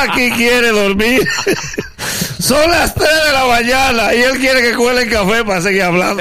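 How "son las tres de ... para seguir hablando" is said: raised, exasperated voice. Acted. Complaining about late-night visitors.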